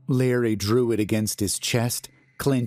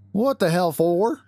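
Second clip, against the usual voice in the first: gruff security guard; 10 semitones higher, 4 dB louder than usual. Acted. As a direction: play the grumpy night guard.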